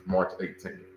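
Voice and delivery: a quiet confirming repeat of "March eighteenth". Real, not acted.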